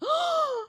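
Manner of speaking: a sharp high delighted gasp. Retold or imitated. Reacting to the man who noticed her, a high delighted gasp. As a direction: gasp with giddy joy.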